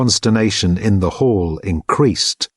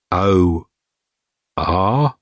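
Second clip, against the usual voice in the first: hopeful; 2 semitones lower than usual. A narrator's reading.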